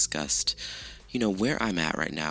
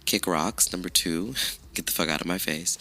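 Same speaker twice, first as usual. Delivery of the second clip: sassy dismissal. Retold or imitated. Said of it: "I would have laughed in your face and been like".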